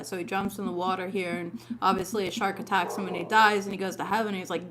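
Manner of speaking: ordinary delivery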